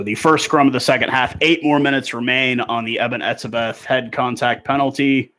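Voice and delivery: rugby commentator setting up the scrum; live play-by-play. Real, not acted. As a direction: call the play, drawing out the player's name. Calls the restart of play.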